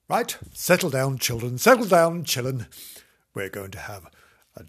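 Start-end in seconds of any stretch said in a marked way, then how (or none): 0.1-2.7 teacher settling class. Acted. Teacher calling class to order.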